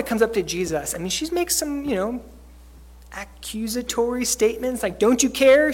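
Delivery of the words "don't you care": angry accusation. Retold or imitated. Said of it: "She's angry".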